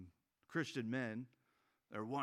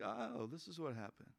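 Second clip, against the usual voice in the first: softer, smug mock voice; smug hindsight; 3 semitones lower, 5 dB quieter than usual. History-class student judging the past, softer smug voice. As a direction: sneer at history from above. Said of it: "It's like".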